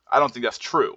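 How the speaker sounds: firm falling close on "true"; confident drop on TRUE; downward inflection. Shown as a demonstration. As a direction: state "that's true" with the tune going down. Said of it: "the downward inflection is there".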